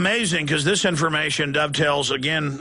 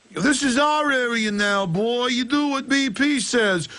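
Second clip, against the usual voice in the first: put-on Italian mobster accent; 7 semitones higher than usual. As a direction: play a menacing Italian mobster. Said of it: "the Italian mobster accent".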